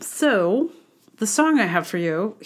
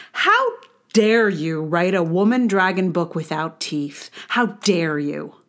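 mock outrage; 2 semitones lower than usual. Indignant tirade at the author.

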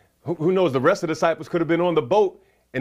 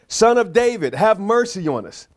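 raised, pleading scripture cry; 5 semitones higher, 3 dB louder than usual. Acted. Preacher voices two blind men following Jesus, crying out. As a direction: call out higher, as read from scripture. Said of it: "crying and saying".

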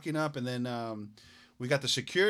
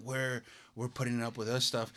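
softer mock grumble; grumbling under breath; 4 semitones lower, 8 dB quieter than usual. Retelling the maskless man's complaint, softer grumble. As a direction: mutter it to yourself, annoyed. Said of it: "the fucking guy is like".

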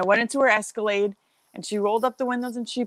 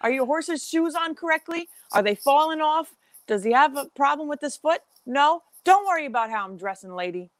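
retold indignation in raised pitch; indignant retort; 5 semitones higher than usual. Farrier's assistant answering the horse owner, indignant. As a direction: fire off pointed rhetorical questions, higher.

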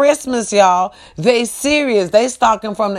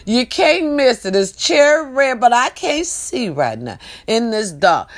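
put-on sweet old lady; 2 semitones higher than usual. Retelling the lost old lady describing her car, lightly voiced. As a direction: play the confused old lady gently. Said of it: "She said".

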